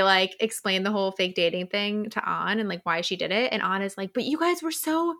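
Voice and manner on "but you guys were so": high, squeaky disbelieving voice, mock outrage; mock incredulous An. Retelling An's shock at the couple, in a high mock-incredulous voice. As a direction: pitch it way up as a gobsmacked friend.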